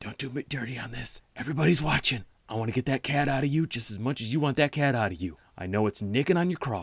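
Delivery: quiet, soft, secretive half-whispered stage whisper. A player's firbolg character speaks to a tree in a tabletop game, half-whispering. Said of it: "and I whisper to the tree".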